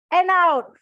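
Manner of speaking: loud exhale on out; big breath in and out. Shown as a demonstration. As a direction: breathe out hard on the word out. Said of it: "leads breathing exercise".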